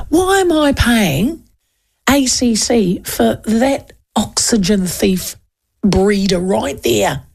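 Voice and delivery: slow, mild mock outrage; lightly acted indignant rant; imagined angry outburst. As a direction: spell out the fury slowly, half-joking. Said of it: "Oh, geez, I was angry".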